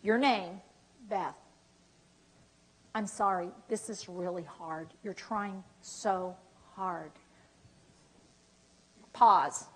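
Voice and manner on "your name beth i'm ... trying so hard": tender apology. Shown as a demonstration. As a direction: say it gently, eyes on theirs. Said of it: "look at you straight in the eyes and say".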